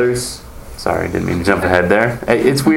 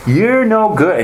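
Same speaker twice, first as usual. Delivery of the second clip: mock scolding pitched high and a bit louder; gloating put-down; 12 semitones higher, 3 dB louder, slower than usual. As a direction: act out tearing into a sinner with relish. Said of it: "you don't go in and go".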